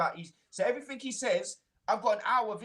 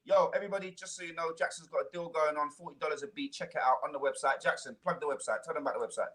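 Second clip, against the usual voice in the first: lower, hammed-up announcer plugging deals; mock sales pitch; 5 semitones lower, faster than usual. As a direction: imitate a pushy seller hyping his beats. Mocking his sales pitch.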